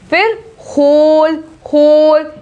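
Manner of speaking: होल with an H, no W; whole as होल; silent W. Shown as a demonstration. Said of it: "W का आवाज नहीं आ रही है".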